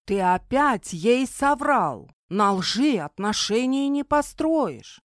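медленно, с нажимом, возмущённо; упрекает, чеканя слова. Acted. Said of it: "возмутился Фредерик". (возмущённый упрёк)

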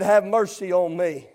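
low, soft pleading; quiet plea. Acted. Preacher recalling the beggar's plea that day, low and soft. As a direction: drop it to a low, subdued plea. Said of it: "there was a plea that was given".

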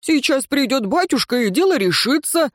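put-on high-pitched girl's protest; high, lilting indignant character voice. A narrator's reading. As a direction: insist daddy will fix it, voice high. Лейра возмущённо спорит с братьями.

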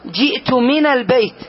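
from lesson example, jumping on من; teacher to students, stressing من in جئت من البيت. Shown as a demonstration. المعلم يضغط على من. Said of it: "إذا قلت لك".

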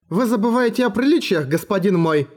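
firm, sharp put-down; cutting rebuke. Acted. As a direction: put the minister in his place. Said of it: "осадила его Насуада".

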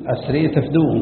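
أسري with the final long a tilted towards e; imala demonstrated. Shown as a demonstration. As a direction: tilt the last vowel of أسري from "aa" towards "ee". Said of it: "حمزة يميل".

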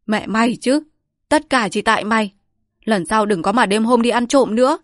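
husband slaps and blames his wife, loud and furious; angry scolding. Acted. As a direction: yell at her after the slap.

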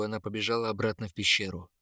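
ordinary delivery, nothing marked

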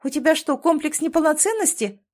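blurted in despair. A narrator's reading. Wife blurts at husband in despair, high and loud. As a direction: blurt it out, at the end of her rope. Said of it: "выпалила Северская, и в её голосе послышалось отчаяние".

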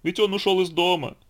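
high-pitched storybook lament; tearful. A narrator's reading. Donkey lamenting that the elephant left home, tearful. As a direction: bemoan it high, lightly crying. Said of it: "заплакал ослик".

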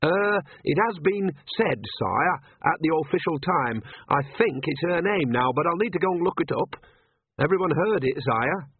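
put-on high, anxious young clerk voice; nervous royal historian.

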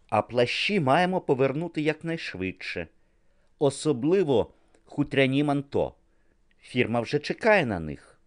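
a bustling fashion-house helper giving orders; lightly voiced fashion assistant. A narrator's reading.

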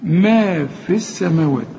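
ما في السماوات with the ي dropped; slow recitation, ما في run into السماوات; tajweed liaison; linked recitation. Shown as a demonstration. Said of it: "أقول".

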